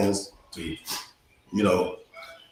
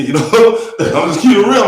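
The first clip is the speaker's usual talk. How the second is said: high, loud, laughing through the words; real laughter; 8 semitones higher, 8 dB louder than usual. Real, not acted. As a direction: laugh while owning up to it. Laughs at own confession of crying.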